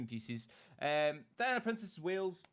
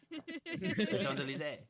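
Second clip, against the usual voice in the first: laughing; 6 semitones higher, slower than usual. Acted. Laughing mock French pronunciation.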